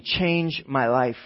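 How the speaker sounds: slow, weighty plea; drawn-out, understated appeal; desperation. Acted. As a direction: beg it word by word. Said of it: "This was desperation".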